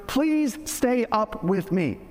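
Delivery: understated imitation of an earnest plea; retold pleading. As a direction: plead gently with a friend, acted lightly. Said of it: "Jesus pleaded with Peter".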